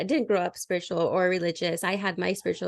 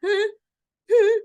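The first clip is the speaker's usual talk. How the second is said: baffled relatives; 13 semitones higher, 6 dB louder than usual. Retold or imitated. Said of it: "family members are like".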